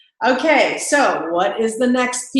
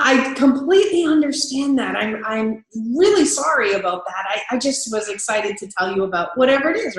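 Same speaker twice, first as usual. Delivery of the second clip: upbeat apology. Shown as a demonstration. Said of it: "keep that enthusiasm up".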